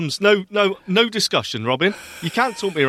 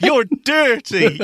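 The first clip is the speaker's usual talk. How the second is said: duck voice; 10 semitones higher, 4 dB louder, much slower than usual. Pretend. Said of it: "To me, they say".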